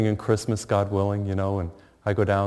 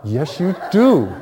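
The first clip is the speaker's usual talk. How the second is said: laughing retort; 7 semitones higher, 5 dB louder, slower than usual. Retold or imitated. Son answers mother, laughing.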